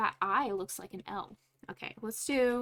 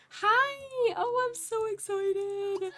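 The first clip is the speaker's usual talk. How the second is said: excited sim voice; 11 semitones higher, much slower than usual. Pretend. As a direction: gush like a thrilled new mom. Voicing the Sim's joy.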